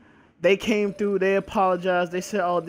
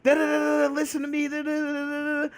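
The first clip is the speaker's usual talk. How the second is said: mock angry yelling; 6 semitones higher than usual. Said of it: "I come say".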